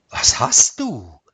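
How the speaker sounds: loud, alarmed question; startled question. A narrator's reading. Husband sees his chalk-white wife, startled and loud. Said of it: "fragte er sichtlich erschrocken".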